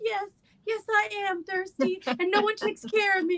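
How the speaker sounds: high-pitched dog voice, drawn out. Voicing what the dog Tippy seems to think: voicing the dog Tippy. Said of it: "Tippy's looking at her like".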